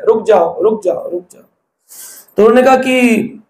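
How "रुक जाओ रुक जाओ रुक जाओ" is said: mild tearful plea. Retold or imitated. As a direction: plead gently, as if retelling someone's tears. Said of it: "रो रहे हैं". (हल्की रुआँसी विनती की नकल)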